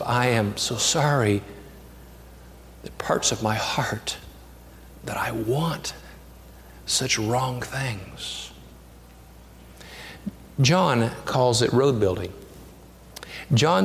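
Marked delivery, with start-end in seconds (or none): 0.0-8.5 slow, softer, sinking into a whisper; hushed confession. Acted. Penitent praying to God about his heart, slow fading whisper. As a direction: confess it as if barely daring to say it.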